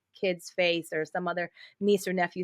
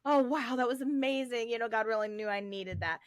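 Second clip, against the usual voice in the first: delighted surprise; 4 semitones higher than usual. Retold or imitated. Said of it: "I go to church and I'm like".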